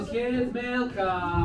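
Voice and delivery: drawn-out call. Acted. Counselor calling the kids.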